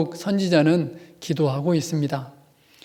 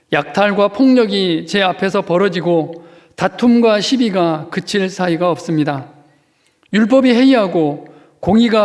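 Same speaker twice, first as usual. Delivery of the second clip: louder, pleading lament read aloud; fervent scripture reading; 3 dB louder than usual. Acted. Pastor reading the plain-language Habakkuk to congregation, pleading. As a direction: read each question as a cry to God. Reads easier translation aloud.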